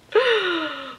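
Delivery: high, drawn-in gasp; overwhelmed high intake of breath. Real, not acted. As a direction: suck in a sharp breath. Overwhelmed by the crying doll.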